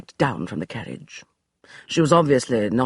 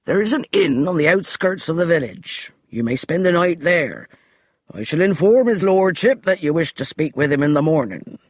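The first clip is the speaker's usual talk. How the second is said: a touch of desperation in the butler; flustered butler pleading; desperate; 4 semitones higher, 5 dB louder than usual. Acted. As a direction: sputter at her, losing ground. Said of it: "Desperation had crept into Finch's voice".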